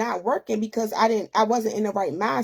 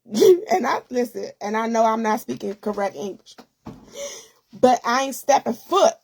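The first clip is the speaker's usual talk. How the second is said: a teary laugh that breaks into crying, then words through it; laughing through tears. Real, not acted. Telling her depression story, she laughs through real tears. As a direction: laugh it off while choked up.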